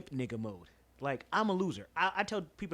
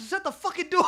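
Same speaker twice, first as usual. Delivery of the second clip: retold holler; 11 semitones higher, 7 dB louder than usual. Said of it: "He said".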